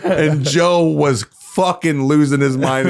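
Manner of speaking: slow, high, laughing through it; amused, laughing retelling. Real, not acted. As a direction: say it while cracking up. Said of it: "I was mad".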